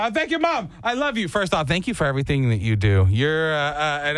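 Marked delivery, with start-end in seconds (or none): 0.0-1.3 mock grateful kid. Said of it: "You go".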